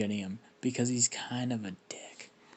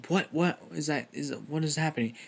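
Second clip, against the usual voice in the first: higher, hurried mock bewilderment; startled confusion; 4 semitones higher than usual. Everyone reacts to a portal opening, startled confusion.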